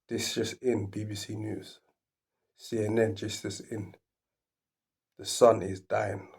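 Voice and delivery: a hint of a TV news announcement; news anchor. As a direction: pretend breaking news. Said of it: "Imagine the news".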